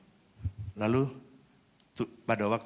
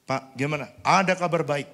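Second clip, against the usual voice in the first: excited news; 6 semitones higher, 10 dB louder than usual. Retold or imitated. Staff brings good news.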